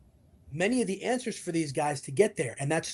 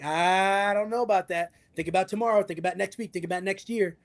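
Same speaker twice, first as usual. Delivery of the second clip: lightly voiced cautious angel; 2 semitones higher than usual. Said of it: "The angel's like".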